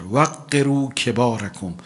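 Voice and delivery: slow, measured hadith chant; solemn recitation; Arabic recitation. Acted. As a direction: intone the Arabic slowly.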